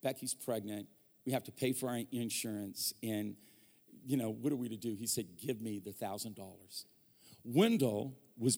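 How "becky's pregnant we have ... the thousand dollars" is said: tearful prayer. Retold or imitated. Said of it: "I was just crying".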